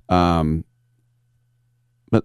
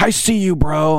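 retold yelling; 9 semitones higher than usual. Bartender hollering at the drinks crowd, high mock yell. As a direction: holler it much higher over the crowd. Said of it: "they're yelling at people".

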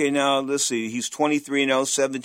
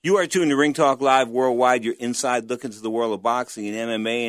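punchy announcer opening, easing into usual level; radio host intro; 4 dB louder than usual. Acted. Host welcoming radio listeners to live boxing talk, announcer delivery. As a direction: launch the show with a loud first phrase.

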